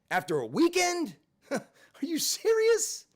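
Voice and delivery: high, cracking disbelief; can't believe this happened; incredulous disbelief. Real, not acted. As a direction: pitch flies up in outrage. Bitter news of chronic illness.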